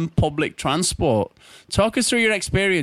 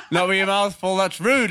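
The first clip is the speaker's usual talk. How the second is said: laughing. Real, not acted. Teasing laughter.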